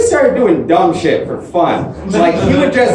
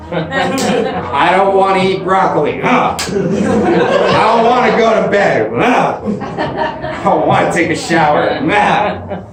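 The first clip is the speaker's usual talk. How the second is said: mock whiny kid groaning ugh; whiny little kid; 3 semitones higher, slower than usual. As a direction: whine it like a sulky child refusing. Himself as upset little kid.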